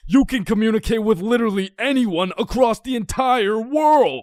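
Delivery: excited pitch. Acted. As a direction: pitch it like a world-changing invention. Inventor pitching the internet.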